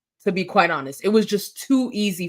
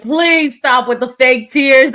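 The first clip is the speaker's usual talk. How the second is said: louder, dismissive mock scold; 3 semitones higher, 6 dB louder than usual. Carolyn telling Danielle to stop fake crying, mock scolding. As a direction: mimic a castmate shutting down tears. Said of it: "And Carolyn was like".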